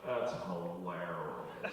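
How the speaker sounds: very low, very slow, flat drone; deadpan hilarious. Retold or imitated. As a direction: say it with zero effort. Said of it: "And he goes".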